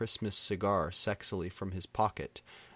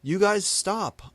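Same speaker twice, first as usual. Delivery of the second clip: high, loud, slow command; angry shout; 12 semitones higher, 8 dB louder, slower than usual. A narrator's reading. Narrator shouting at the fighting band, slow loud angry. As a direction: shout them down. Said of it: "I shouted angrily".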